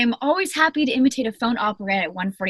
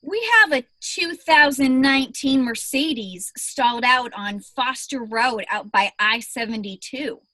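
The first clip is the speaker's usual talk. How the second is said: bored dispatcher voice; 3 semitones higher than usual. Pretend. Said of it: "put on a performance".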